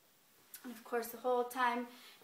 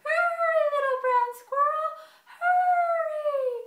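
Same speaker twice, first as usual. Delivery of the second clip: much higher, loud urgent call; grandma calling; 15 dB louder than usual. A narrator's reading. Grandma calling her grandson to the burrow, high and urgent. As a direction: shout to him to hurry. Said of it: "she's like".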